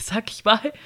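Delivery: usual speaking voice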